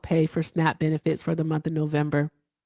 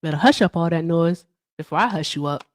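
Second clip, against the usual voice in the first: stern mom threat. Retold or imitated. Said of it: "Something like that".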